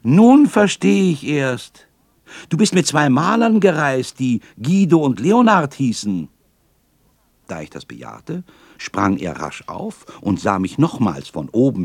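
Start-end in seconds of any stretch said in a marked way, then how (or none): 0.0-6.3 higher, louder, amused painter; a hint of laughter in it; amused realization. A narrator's reading. Painter laughing at the boy's mix-up, amused. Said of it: "brach er plötzlich in ein lautes Gelächter".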